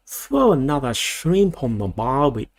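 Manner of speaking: slow, mock Aussie accent; stereotype Australian accent. Shown as a demonstration. Australian vlogger demoing the stereotype, slow mock Aussie accent. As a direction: drag out the Aussie catchphrase slowly. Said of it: "I can't really do that kind of".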